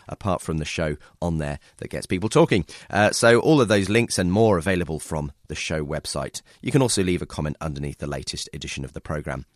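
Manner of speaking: slightly croaky voice from a cold; croaky voice, just getting over a cold. Real, not acted. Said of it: "excuse the slightly croaky voice".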